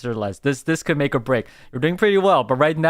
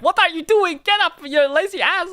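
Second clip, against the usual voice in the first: high-pitched hammed-up telling off; playful shrill-pitched scolding, louder; mock scolding; 4 dB louder than usual. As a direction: nag a lazy partner out of bed at a high pitch. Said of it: "you walk in from home and be like".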